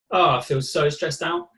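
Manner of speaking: leaning back loose, say you're stressed; sprawled out, claiming stress; relaxed body, saying stressed; mock stressed. Shown as a demonstration. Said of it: "lean back, legs out, big breath".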